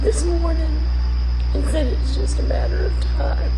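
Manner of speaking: high, loud tearful voice that keeps breaking; really crying while asking for prayers; upset and crying. Real, not acted. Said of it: "I'm sorry I'm upset on this video".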